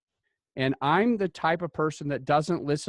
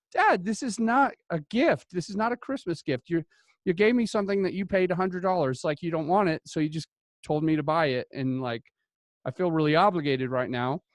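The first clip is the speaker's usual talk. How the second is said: exasperated protest; 4 semitones higher than usual. Retold or imitated. Son retells protesting to dad.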